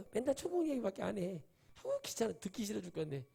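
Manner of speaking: mock annoyance. Mocking a bored churchgoer.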